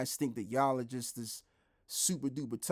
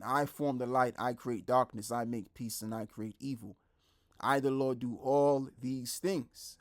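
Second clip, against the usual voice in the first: scripture reading. Acted. Reads Isaiah verse aloud.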